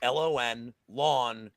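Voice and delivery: Lawn said with a long open aw and no g; Long Island accent. Shown as a demonstration. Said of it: "it's pronounced".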